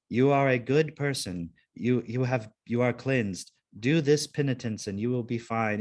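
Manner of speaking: measured, formal absolution; deliberate robo-priest delivery, mildly acted; robot priest recording. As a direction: lightly voice an automated priest pronouncing forgiveness. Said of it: "on-call robo priest forgiveness".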